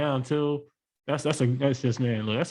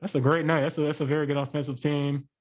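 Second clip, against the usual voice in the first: through a face mask. Real, not acted. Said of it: "I know you can't hear me with this mask on".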